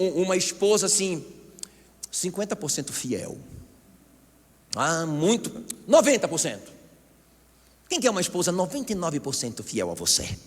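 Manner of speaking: usual speaking voice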